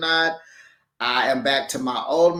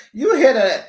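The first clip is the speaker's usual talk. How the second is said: high, loud, cracking up mid-question; imitating a friend cracking up; laughing disbelief; 6 semitones higher, 5 dB louder than usual. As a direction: squeal it through laughter. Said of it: "Martell is like".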